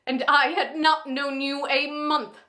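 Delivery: angry, formal refusal of a proposal; Lizzie Bennet, upset. Acted. Heroine refusing Mister Darcy's insulting first proposal, upset and angry. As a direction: play an indignant heroine turning down a suitor, lightly heightened. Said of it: "Lizzie is very upset during this".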